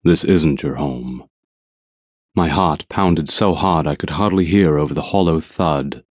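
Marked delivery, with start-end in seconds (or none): 0.0-1.3 calm and slow, no edge; without anger. Acted. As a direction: state it gently and slowly. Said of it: "He said without anger".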